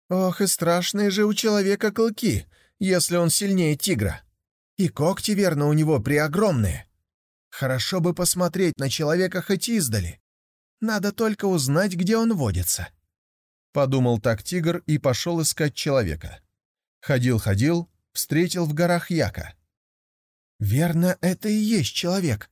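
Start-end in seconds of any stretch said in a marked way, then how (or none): 0.1-12.9 put-on high, eager young tiger voice; a curious cub wondering aloud; higher, childlike young tiger full of wonder; naive young tiger. 20.6-22.5 put-on high, eager young tiger voice; a curious cub wondering aloud; higher, childlike young tiger full of wonder; naive young tiger.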